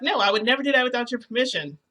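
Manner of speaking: hurried, insistent retort; indignant denial. Retold or imitated. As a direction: rush to deny it, affronted. Acted protest in a retold quarrel.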